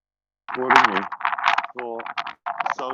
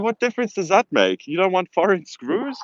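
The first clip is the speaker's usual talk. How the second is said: higher, challenging questions; mock-indignant, pitched up in disbelief; retold indignant comeback; 6 semitones higher than usual. Retelling her retort to the stranger about screws, indignant.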